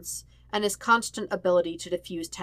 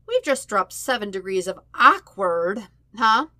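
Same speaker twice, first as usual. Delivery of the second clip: louder, stretched-out cheerful opener; cheerful drawl; 3 semitones higher, 7 dB louder than usual. A narrator's reading. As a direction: break the awkward silence with a grin. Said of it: "Sokka drawls cheerfully".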